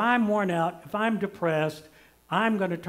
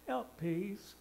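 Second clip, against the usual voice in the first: put-on little child pleading; 3 semitones higher, 7 dB quieter, much slower than usual. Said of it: "she'll look up at me and say".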